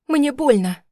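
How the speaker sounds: wife crying out as husband crushes her hand; cry out in pain. A narrator's reading. A pained shout. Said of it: "выкрикнула я".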